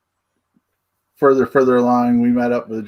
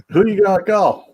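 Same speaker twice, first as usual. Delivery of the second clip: raised, punchy catchphrase call; movie trailer voice; 8 semitones higher, 3 dB louder than usual. Retold or imitated. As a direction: belt the Ghostbusters line. Ghostbusters catchphrase quoted.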